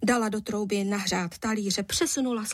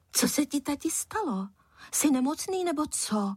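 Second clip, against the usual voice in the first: put-on puzzled boy; 7 semitones higher than usual. A narrator's reading. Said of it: "podivil se Filip".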